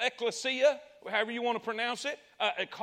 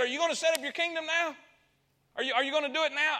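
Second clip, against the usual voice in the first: quick, higher, impatient questions; eager asking; 5 semitones higher, faster than usual. Retold or imitated. Preacher voicing disciples pressing Jesus, eager and fast. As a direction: ask like impatient kids.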